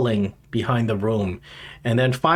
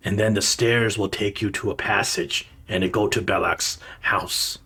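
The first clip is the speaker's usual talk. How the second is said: bugbear giving directions; 4 semitones lower than usual. Acted. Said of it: "He says".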